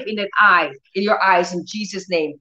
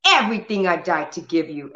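lower, quieter and firm; understated stern voice of Jesus; a touch of stern authority; 4 semitones lower, 4 dB quieter than usual. Retold or imitated. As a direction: quietly voice his stern command. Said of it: "he was so stern".

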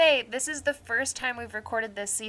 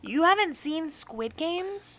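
high, slow and stunned; can't believe what you heard; shocked disbelief; 9 semitones higher, 5 dB louder, slower than usual. Real, not acted. Shocked at friend not watching.

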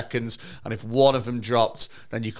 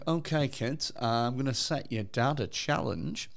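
lightly mimicked presenter, drawing out the challenge; a TV presenter; 3 dB quieter, slower than usual. Presenter setting a dad his challenge, lightly imitated. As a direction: set the challenge slowly, as a mock TV host. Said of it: "Cilla Black would come round to someone's house".

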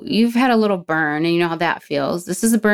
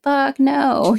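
blunt refusal; 8 semitones higher than usual. Retold or imitated. Her refusal at meeting.

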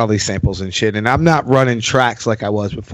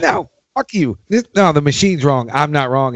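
mock defiance; 3 semitones higher than usual. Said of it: "That's how shitty I got".

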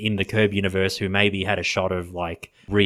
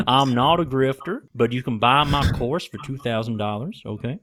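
bad Texan accent; 3 semitones higher than usual. Doctor selling her course to Steven, mock Texan. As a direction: pitch it like a hammy Texan huckster. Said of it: "my worst Texan accent".

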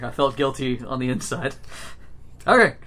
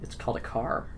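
breathy whisper; 3 semitones lower, 9 dB quieter than usual. Acted. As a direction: whisper it proudly. NPC answering in whisper.

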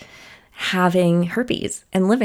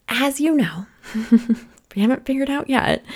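laughing; 5 semitones higher than usual. Real, not acted. Teasing her listeners about her crusade.

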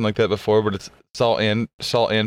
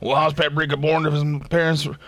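black metal vampire voice; 3 semitones higher than usual. Retold or imitated. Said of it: "I was doing the black metal vampire voice".

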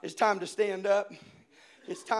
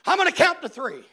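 put-on louder, higher kid's tough talk; brave threat; 10 semitones higher, 16 dB louder than usual. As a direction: act like Bruce Lee. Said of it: "I said".

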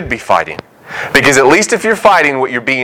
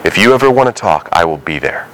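put-on lower, gentle voice of God to his child; a hint of a lower, fatherly God; 7 semitones lower than usual. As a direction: speak low and tender, as a father reassuring. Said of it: "he's still there going".

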